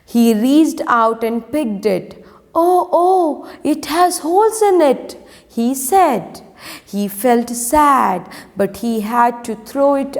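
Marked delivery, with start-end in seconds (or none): 2.5-5.2 higher-pitched storybook dismay; a lightly acted, raised-pitch "oh no"; dismayed discovery. A narrator's reading. Gardener's son finds holes in the picked mango, mildly dismayed.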